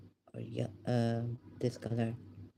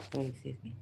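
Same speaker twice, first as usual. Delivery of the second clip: soft sorry, rising on me; hushed excuse me; quiet apology; 6 dB quieter, much faster than usual. Real, not acted. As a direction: murmur an apology. Apologizing under breath.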